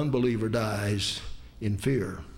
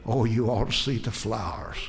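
wondering dying woman; 6 semitones lower than usual. Retold or imitated. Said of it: "she started describing heaven".

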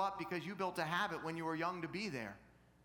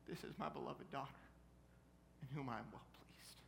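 tender pronouncement; 2 semitones lower, 8 dB quieter than usual. Retold or imitated. Father's tender answer to daughter.

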